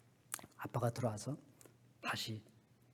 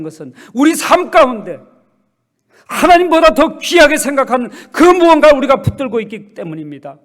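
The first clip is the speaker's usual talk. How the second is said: loud, higher sermon exhortation; full-force preaching; 10 semitones higher, 21 dB louder than usual. Acted. Pastor presses the congregation on what they cling to, preaching hard. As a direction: preach it to the back pews.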